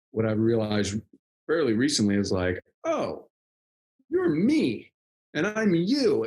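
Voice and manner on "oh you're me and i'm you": high-pitched retold wonder; replayed moment of epiphany; dawning realization. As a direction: lift the pitch as it suddenly clicks. Acts out a sudden realization.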